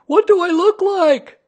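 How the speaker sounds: very high, loud calling voice; Pooh, shouting down. A narrator's reading. Pooh asking the boy below, shouting down. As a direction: call a question to someone far below.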